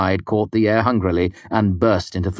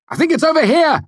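loud, high call down a hallway; shout; 6 dB louder than usual. A narrator's reading. Hero alerting the crowd upstairs, shouted. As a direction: shout it out for everyone to hear. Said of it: "I shouted".

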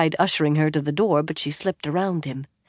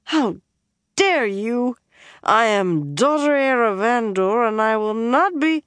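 higher, louder royal indignation; indignant outrage; 6 semitones higher, 4 dB louder than usual. A narrator's reading. Slapped Elaine asserting her rank, loud and indignant. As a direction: draw yourself up and defy him.

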